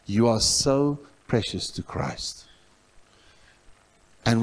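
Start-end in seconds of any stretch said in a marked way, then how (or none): 0.0-2.4 1 tender appeal. Retold or imitated. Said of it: "And in that silence, I just said".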